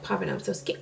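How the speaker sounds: telling her coworker she is scared, hushed and small. Retold or imitated. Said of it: "before I was telling her".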